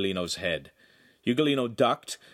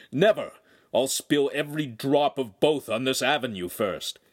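angry; 4 semitones higher, 3 dB louder than usual. Acted. Enraged master threatens boy.

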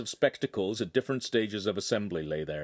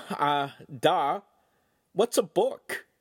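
much higher playing-dumb voice; foolish mock voice; 6 semitones higher, 3 dB louder, slower than usual. A narrator's reading. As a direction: play the village idiot. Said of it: "made a foolish face again".

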